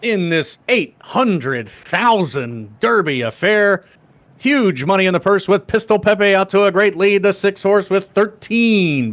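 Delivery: put-on old-time radio race announcer; 1920s voice. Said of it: "I'll do the nineteen twenties voice again".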